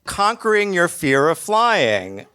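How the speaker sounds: slow, deliberate, a little put-on; lightly voiced embarrassed admission; mock confession. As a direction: spell out the shameful truth slowly. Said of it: "I'm gonna have to say".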